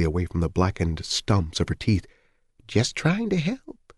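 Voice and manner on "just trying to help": slow, high, sulky mumble; muttered. Acted. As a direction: grumble it as you retreat. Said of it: "she muttered".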